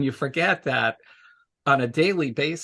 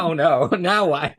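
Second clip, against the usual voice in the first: mock worried, laughing; 3 semitones higher, 6 dB louder than usual. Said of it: "I'm like".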